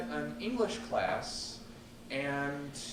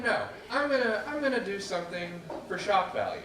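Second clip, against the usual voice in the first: defiant excitement; 5 semitones higher than usual. Retold or imitated. Retold inner decision.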